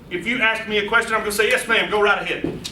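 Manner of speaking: eager, leaning-in welcome to a question; excited. Shown as a demonstration. Presenter greeting an audience question, excited. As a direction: show you're thrilled someone asked. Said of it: "Get excited about the question".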